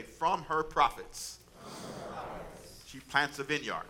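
slow, measured group-reading pace; really slow reading. Shown as a demonstration. Preacher leads the congregation through a verse, really slow. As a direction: read it out slowly for others to follow. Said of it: "read this really slow with me".

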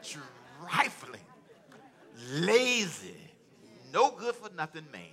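lightly imitated mother's scolding, word by word; spaced-out words of motherly disapproval. Preacher showing how his mother said it, admonishing. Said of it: "you gotta say it like she said it".

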